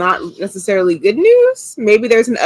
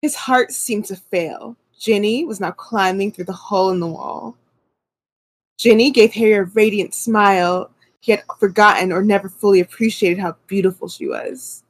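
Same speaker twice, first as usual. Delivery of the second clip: Henny voice. Shown as a demonstration. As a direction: read it as a lightly put-on romantic narration. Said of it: "You wanna try it, Henny voice?".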